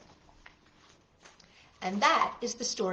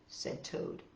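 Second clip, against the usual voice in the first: whisper; 12 dB quieter than usual. Acted. Whispered narration.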